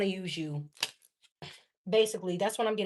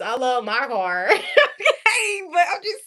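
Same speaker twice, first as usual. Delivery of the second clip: laughing; 6 semitones higher, 7 dB louder than usual. Real, not acted. Jokingly protecting her car.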